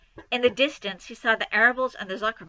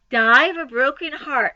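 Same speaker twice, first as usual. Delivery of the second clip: mimicking; 3 semitones higher, 7 dB louder than usual. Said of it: "he mimicked".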